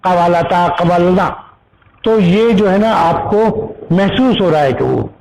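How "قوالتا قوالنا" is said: reciting an Arabic verb table form by form; even, level drill of verb forms; conjugation recitation. Shown as a demonstration. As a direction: recite it like a grammar paradigm. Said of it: "اگر آپ اس کی وہ پڑھیں گے".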